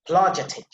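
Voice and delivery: "Apologetic" with the opening a dropped, like "plojetic"; corrected pronunciation. Shown as a demonstration. Teacher repeating the corrected word, swallowed first vowel in "Apologetic". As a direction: start "Apologetic" straight on the p. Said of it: "but that is apologetic".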